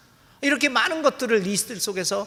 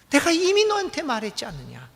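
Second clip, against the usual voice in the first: light answer; 7 semitones higher, 3 dB louder than usual. Acted. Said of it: "매우 경쾌한 답변을 주십니다".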